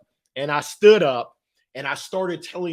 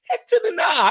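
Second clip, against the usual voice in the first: much higher, louder punchy nah; emphatic no; 13 semitones higher, 5 dB louder than usual. Real, not acted. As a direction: throw the nah out big and loud. Answering his own question emphatically.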